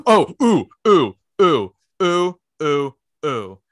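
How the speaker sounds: loud, rising ooh ooh calls; excited oohs. Real, not acted. Remembering a line she has to share, excited. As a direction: burst out with eager oohs.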